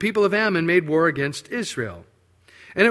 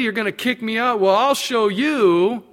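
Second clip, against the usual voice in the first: defiant retort; 4 semitones higher, 5 dB louder than usual. Acted. Spurned man defying those who expelled him.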